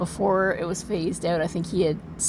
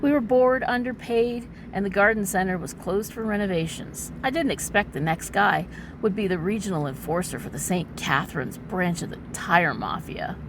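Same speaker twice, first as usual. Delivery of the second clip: overwrought noir narration; milk every line like pulp noir; hammy stage actor. A narrator's reading. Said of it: "as a dramatic reading".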